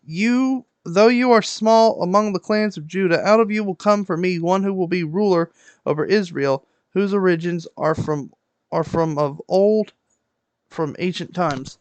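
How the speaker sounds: measured Bible reading aloud; projected, even read-aloud delivery; scripture reading. Acted. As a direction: read the verses out with deliberate phrasing. Reads the verse of the day.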